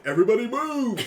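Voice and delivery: loud, high giant's bellow; Fezzik voice. Retold or imitated. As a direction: boom it out like the giant. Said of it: "you also hear it in his voice".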